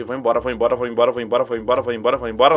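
scared mumble. Retold or imitated. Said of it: "louco de medo".

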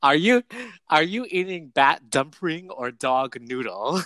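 imitating a thick Asian accent, mocking; a bully's put-on Asian accent, drawn out and laughing. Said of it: "says in a thick Asian accent".

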